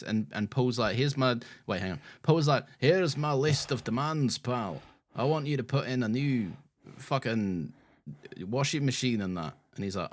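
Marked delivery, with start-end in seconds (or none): 1.0-1.4 lightly put-on Scottish voice; Scottish accent. Paul confronting the landlord, in a Scottish accent. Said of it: "when you do your Scottish accent". 2.8-9.5 put-on Scottish accent. Paul listing demands to the landlord, in a Scottish accent. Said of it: "when you do your Scottish accent".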